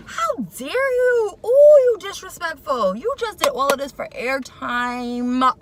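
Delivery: outraged cry. Real, not acted. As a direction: cry out in scandalised indignation. Outraged at insult to mother.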